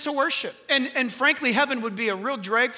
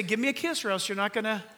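mock threat; 3 semitones lower, 7 dB quieter, faster than usual. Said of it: "I can threaten her".

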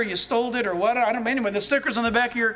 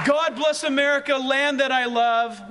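proclaimed anthem line. Acted. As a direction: declaim it like the anthem. Quoting the patriotic song.

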